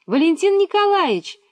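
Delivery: high, loud call down a bad line; shouting name into phone. A narrator's reading. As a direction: yell the name to be heard. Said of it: "закричала Миронова".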